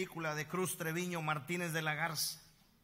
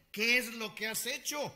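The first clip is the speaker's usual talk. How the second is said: stern God; 8 semitones higher, 5 dB louder than usual. Acted. Voicing God's question.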